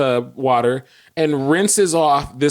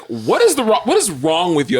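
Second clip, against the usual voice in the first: higher, indignant retort; imitating exasperated wife; 5 semitones higher than usual. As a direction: snap back as the baffled wife. Imitates exasperated wife answering back.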